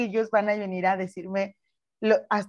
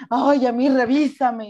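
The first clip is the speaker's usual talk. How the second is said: slow, coy, louder flirting; flirty mock plea; 3 semitones higher, 6 dB louder than usual. Quoting flirting women. (pídelo coqueta y lento, como señora insinuante)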